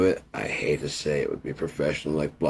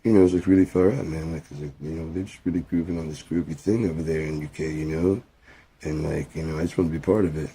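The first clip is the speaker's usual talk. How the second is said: Impression of a famous guitarist. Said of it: "impersonation of a famous guitarist".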